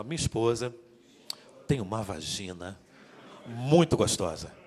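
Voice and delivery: slow, low Rio de Janeiro drawl; Carioca accent. Shown as a demonstration. Preacher demonstrating to husbands in a Carioca accent. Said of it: "Agora fala como carioca".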